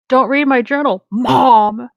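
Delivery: screamed. A narrator's reading. Teen shouting at mom over his journal, mock scream. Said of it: "screamed Sonic".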